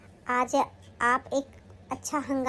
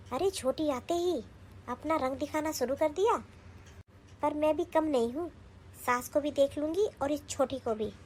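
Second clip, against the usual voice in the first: softer, grumbling to herself; muttered aside; 6 dB quieter than usual. Acted. Elder daughter-in-law grumbling to herself about her mother-in-law, softer. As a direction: scheme quietly under your breath.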